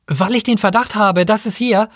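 high-pitched, flustered accusation; groping for words. A narrator's reading. Guest justifying his quarrel to the owner, groping for words. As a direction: start the accusation and run out of words. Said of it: "Remy rang nach den Worten".

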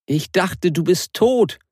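high, spat-out words. Acted. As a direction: spit the words out in disgust. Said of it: "spie die junge Frau aus".

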